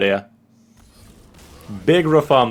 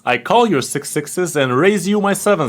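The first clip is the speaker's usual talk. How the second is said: mock poker bravado; 6 semitones higher than usual. Streamer taunting the opponent with mock poker bravado. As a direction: taunt like a cocky card shark.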